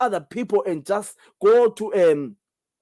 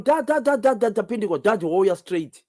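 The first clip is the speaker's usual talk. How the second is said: put-on higher, urgent, retelling a frightened child's cry; panicked child calling dad; 3 semitones higher than usual. Child on the phone calling for father, urgently imitated. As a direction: voice the child's desperate repeated dad. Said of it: "a child from".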